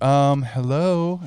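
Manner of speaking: pointed hello. Retold or imitated. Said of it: "he's like".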